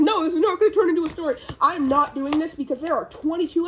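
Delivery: acted protest. Retelling a character refusing the story, in mock protest. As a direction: cut in fast with an imitated protest.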